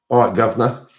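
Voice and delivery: brief playful Cockney greeting; lightly put-on Cockney, lilting up at the end; Cockney accent. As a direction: toss in a bit of Cockney. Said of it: "So that was my Cockney accent".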